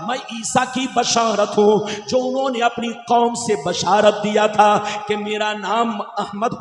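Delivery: rhythmic, chant-like sermon with stretched key words; declamatory preaching. Real, not acted. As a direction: proclaim sacred words to a congregation. Preaches the hadith translation rhythmically. (लयदार, जोशीली तक़रीर)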